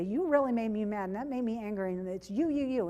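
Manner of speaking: blaming, rising into an accusing jab; angry accusing delivery. Shown as a demonstration. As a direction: jab the "you" at them. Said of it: "It's all in the delivery".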